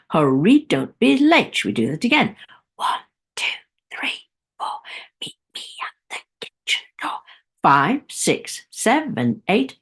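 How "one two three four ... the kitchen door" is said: rhythmic whispered rhyme; hushed, voiceless counting chant; whispering voice. Shown as a demonstration. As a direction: whisper it to a steady beat. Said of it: "whispering voice".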